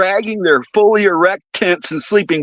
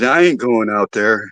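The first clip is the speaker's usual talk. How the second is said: spooked guy; 5 semitones lower than usual. Retold or imitated. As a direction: hush it down like a secret. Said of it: "He says".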